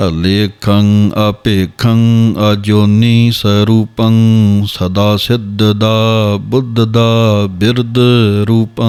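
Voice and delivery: slow, measured chanting of verse; slow Gurbani path recitation; scripture recitation. Shown as a demonstration. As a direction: recite each line slowly and evenly, as in path. Recites Jaap Sahib verses.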